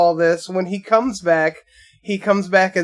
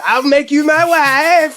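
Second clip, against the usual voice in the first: Borat impression; 8 semitones higher, 5 dB louder than usual. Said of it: "uncanny when I heard".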